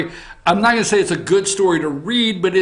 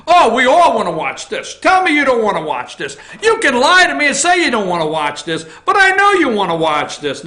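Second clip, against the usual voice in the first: louder, laughing taunt; teasing; 4 semitones higher, 4 dB louder than usual. Real, not acted. To listeners who deny it, laughing teasing taunt. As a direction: needle them, grinning.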